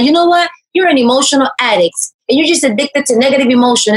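mock the coach telling her off; imitating coach scolding. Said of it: "she cussed me out too".

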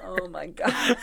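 breathy whisper of horror; whispered awe. Real, not acted. Reacting to the crane in the rearview mirror, whispered. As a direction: whisper it like it's creepy.

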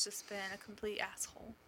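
breathy secret complaint, voice dropped away; whisper. Real, not acted. Complaining about son.

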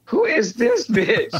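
slow, laughing through a mock outraged question; amused imitation of a stunned boyfriend; laughing mock indignation. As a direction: play his baffled scorn while giggling. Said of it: "he's looking at her like".

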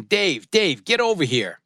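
a mock booming summons across the party; booming call. Boss calling him over, mild booming voice. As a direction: call out his name like a boss. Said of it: "this booming voice".

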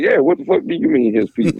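high-pitched indignant woman's voice; mock outraged woman. Victim throws the investigator's words back at him, high and outraged.

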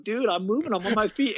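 a patient thrilled to be walking again; excited. Retold or imitated. Patient walking in the hallway, retelling his thrilled excitement. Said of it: "I was excited".

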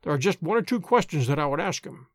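ordinary delivery, nothing marked

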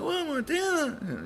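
slow, high, soft falsetto; mock wife. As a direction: gasp it as the shocked wife.

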